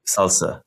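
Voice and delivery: "salsa" as one two-syllable word; acronym said as "salsa". Shown as a demonstration. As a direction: say "salsa" like the dip, not letter by letter. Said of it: "That's how you say it".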